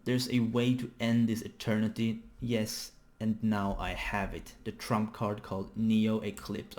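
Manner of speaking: measured, emphatic character dialogue; dramatic manga reading. Acted. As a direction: read the lines out with dramatic emphasis.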